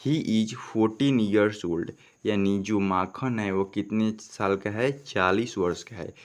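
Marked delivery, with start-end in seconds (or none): 0.1-1.9 each word read slowly and clearly; slow dictation pace; slow reading aloud. Shown as a demonstration. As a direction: read the sentence slowly for the class. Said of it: "देखिए क्या लिखा है".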